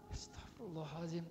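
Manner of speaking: suddenly hushed prayer; istighfar dilembutkan. Acted. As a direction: drop from a shout to a soft murmur. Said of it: "sudah dilembutkan". (istighfar lirih meredam amarah)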